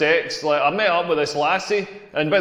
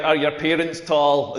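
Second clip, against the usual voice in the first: mock nosy stranger; 5 semitones lower, slower than usual. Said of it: "They'll say things like".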